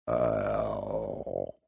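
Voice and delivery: Hap's final word before toppling; last faint breath. A narrator's reading. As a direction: fade out entirely on the word. Hap dying, fading.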